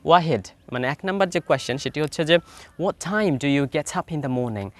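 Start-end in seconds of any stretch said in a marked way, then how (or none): 2.8-4.7 slow model question. Shown as a demonstration. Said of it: "তো উচ্চারণটা ঠিক হবে".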